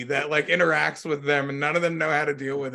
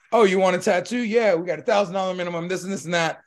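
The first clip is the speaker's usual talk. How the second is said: pushy saleswoman; 4 semitones higher, 4 dB louder than usual. Retold or imitated. Imitating pushy tattoo artist's pitch.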